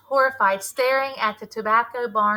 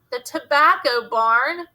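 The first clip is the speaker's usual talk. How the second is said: louder, slow astonished question; surprised; 3 semitones higher, 6 dB louder, slower than usual. Acted. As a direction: echo it back in disbelief. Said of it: "surprise ringing his voice".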